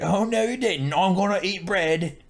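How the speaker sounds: high, sassy "oh no you didn't"; hammed-up sass from drunken peasants; sassy mock voice.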